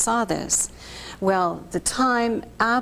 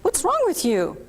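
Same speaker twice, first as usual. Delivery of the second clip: husband's alarm; 5 semitones higher than usual. Retold or imitated. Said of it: "he goes".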